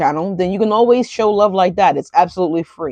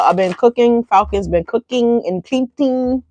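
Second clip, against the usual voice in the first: slow, drawn-out Madea voice; lightly voiced sassy grandma; 3 semitones higher than usual.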